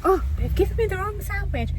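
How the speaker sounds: imitating her own outraged rant, pitched high; mock ranting. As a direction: mimic yourself moaning about the wrong sandwich. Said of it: "ranting and raving and being like".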